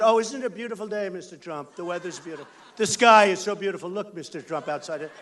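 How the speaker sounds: mock sweet small talk. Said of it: "They don't talk about".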